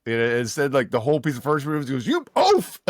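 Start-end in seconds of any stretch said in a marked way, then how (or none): 2.1-2.8 shrieked, much higher and louder; high furious yell. Retold or imitated. Scientist yelling at a clumsy ghost, high shriek. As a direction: scream the insult up high like a furious wizard. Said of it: "he starts yelling".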